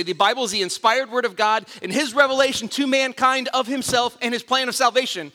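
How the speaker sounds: proud, crisp recitation; eager kid answer. Retold or imitated. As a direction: rattle it off like the star quiz kid. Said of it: "And I would say".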